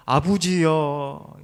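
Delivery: 아부지여 drawn out slowly in Gyeongsang dialect, 부 for 버 and a trailing 여; slow, old-fashioned Gyeongsang call 아부지여. Shown as a demonstration. Preacher shows how old Gyeongsang folk called Father, Gyeongsang dialect. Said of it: "경상도 사투리로는".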